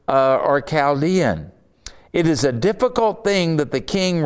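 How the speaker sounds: measured, declaiming Bible reading; scripture reading. Acted. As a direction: read the king's threat with weight. Reads scripture aloud.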